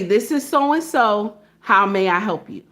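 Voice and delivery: even, measured phone greeting; polite phone manner. Shown as a demonstration. Worker answering an office call, polite demonstration. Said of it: "this is how I answer the phone".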